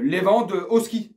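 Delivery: Lewandowski said slowly, stretched, with a rise; stretched reveal of the name Lewandowski; drawn-out answer. Real, not acted. His own answer, drawn out after a pause.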